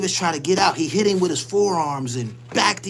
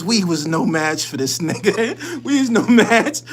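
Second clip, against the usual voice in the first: laughing; 3 dB louder than usual. Real, not acted. Laughing on lines.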